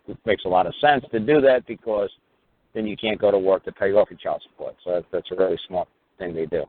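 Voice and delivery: dry, mocking praise; sarcastic. Real, not acted. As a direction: say it deadpan, meaning the opposite. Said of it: "I'm being sarcastic".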